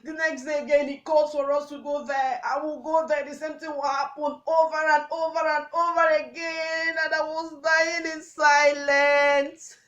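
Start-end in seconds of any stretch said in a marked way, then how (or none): 3.3-9.8 anguished, building. Acted. Survivor telling of repeated abuse, anguish building loud. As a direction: let despair swell to the last word.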